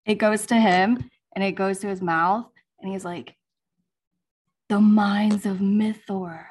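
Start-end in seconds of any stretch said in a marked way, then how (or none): 4.7-6.4 slow secret whisper to himself; breathy whisper. Shown as a demonstration. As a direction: whisper it slowly, like murmuring to yourself. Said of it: "I'm gonna do a little reenactment".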